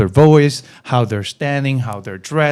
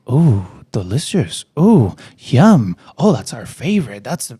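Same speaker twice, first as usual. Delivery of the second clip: mock gushing upsell; 2 semitones lower, slower than usual. Shown as a demonstration. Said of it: "no, don't give them that shit".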